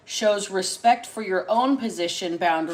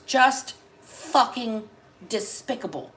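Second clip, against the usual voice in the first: disgusted, disappointed; 2 semitones higher, slower than usual. Retold or imitated. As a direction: let the disgust drip off each word. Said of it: "extremely disgusted, disappointed tone of voice".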